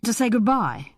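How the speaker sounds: nervous stammer on the first words. A narrator's reading. Reggie tells Anne why he has come, stammering. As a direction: stumble over the words, haltingly. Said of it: "stammered out".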